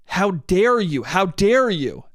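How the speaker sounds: mock outrage with a swoop on "dare"; mildly hammed-up indignation; retold yelling. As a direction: imitate an affronted woman, drawn out. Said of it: "the woman keeps yelling at him".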